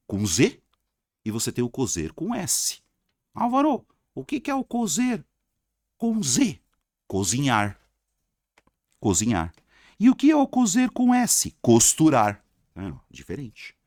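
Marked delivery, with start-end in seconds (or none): 3.3-6.6 high-pitched put-on pupil questioning the teacher; high imitation of a puzzled pupil; mock student voice. 10.0-11.6 high, loud put-on pupil; high-pitched imitation of a pupil; mock student voice. Teacher voices a student's question.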